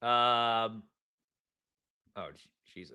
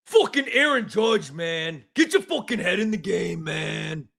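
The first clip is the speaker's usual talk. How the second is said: put-on New York accent; 2 semitones lower than usual. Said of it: "Good accent".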